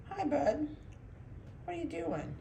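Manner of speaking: high sing-song puppy talk. Real, not acted. Breeder greeting a puppy on the floor, high baby talk. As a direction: coo high at the pup.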